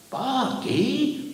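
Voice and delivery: exasperated, high-voiced driver; high-pitched protest. A narrator's reading. Driver answering the screaming giant, exasperated.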